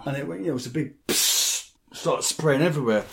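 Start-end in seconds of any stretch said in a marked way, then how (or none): 1.1-1.7 sharp spurting "psst" noise; imitated spurt. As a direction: make the hiss of spraying blood. Imitates spraying blood.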